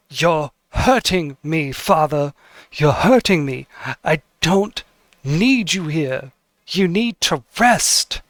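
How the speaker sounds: a hint of a hurt daughter begging, slowed; gently voiced plea to her father, rising at the end; pleading daughter.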